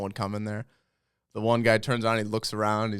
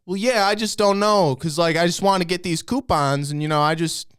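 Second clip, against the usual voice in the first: put-on higher-pitched, pleading old customer; helpless old man; 5 semitones higher, 5 dB louder than usual. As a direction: imitate a clueless old man explaining himself. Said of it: "Then there's this old guy".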